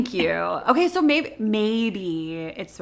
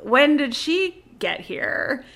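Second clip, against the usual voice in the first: baffled; 2 semitones higher, much slower than usual. Retold or imitated. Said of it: "And I'm like".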